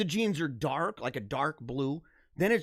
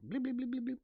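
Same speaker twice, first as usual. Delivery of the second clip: imitating blinks; 7 semitones higher, 8 dB quieter, faster than usual. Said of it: "It's like, it's like blinking".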